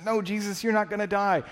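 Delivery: protesting Peter. Acted. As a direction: insist he can't die. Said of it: "Peter comes before him and he says".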